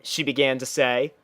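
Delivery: plain reading voice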